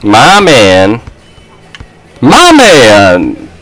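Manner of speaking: drawn-out Aquaman quote; Aquaman catchphrase. Retold or imitated. Player praising teammate, quoting Aquaman. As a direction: stretch it out like the movie catchphrase. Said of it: "The quote from Aquaman".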